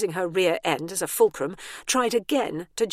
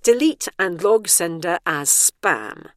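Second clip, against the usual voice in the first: slow, loud firm command; 7 dB louder, slower than usual. Acted. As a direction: spell it out to the device. Commanding the tablet.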